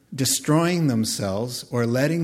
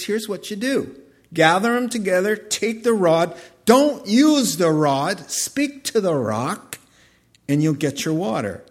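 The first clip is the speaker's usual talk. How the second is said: God's instructions; 6 semitones higher, 4 dB louder than usual. Acted. God instructing Moses, deliberate and raised. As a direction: give the order as God, measured.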